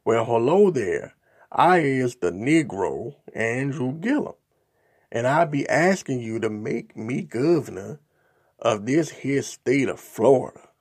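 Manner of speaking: reading mock minstrel dialect. Imitating robocall voice asking Floridians for votes, mild caricature. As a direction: read it the way the racist robocall sounded. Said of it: "it goes something like this".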